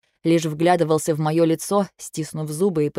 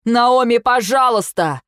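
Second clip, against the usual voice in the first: loud high cry, slowing on пожалуйста; shouting, choking on words; 6 semitones higher, 5 dB louder, slower than usual. Acted. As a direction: yell her name while struggling to hold her. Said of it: "закричал Эйден, захлёбываясь словами".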